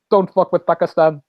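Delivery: mock Middle Eastern accent; lightly put-on Middle Eastern accent; fake Middle Eastern accent. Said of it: "puts on this fake, like, Middle Eastern accent".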